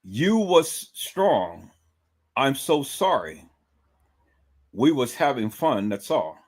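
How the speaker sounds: very slow, dragged mocking dialect reading; slow mock Ebonics read. Shown as a demonstration. Reading the post back in slow mock Ebonics. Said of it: "listen to that again".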